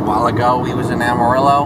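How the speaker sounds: put-on Southern accent. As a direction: say it like a Texan. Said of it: "I'm gonna talk like this".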